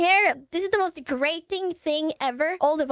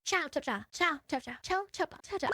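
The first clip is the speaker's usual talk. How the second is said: imitating a Finnish guy; 9 dB quieter than usual. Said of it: "He speaks, like, in very, very short breaths".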